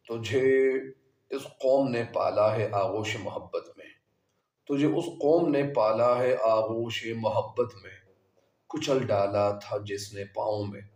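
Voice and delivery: measured verse reading with deliberate pauses; poem recitation. Acted. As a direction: recite the couplet phrase by phrase. Recites the verse being taught.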